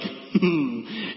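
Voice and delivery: mock-pleased closed-mouth chuckle; gleeful little hum. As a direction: hum with sly, secret satisfaction. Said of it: "happy when something bad happens".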